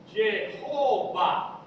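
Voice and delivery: slow, drawn-out syllables; spelled-out pronunciation. Shown as a demonstration. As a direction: sound out Jehová syllable by syllable, long and deliberate. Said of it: "Y E, que es Ye".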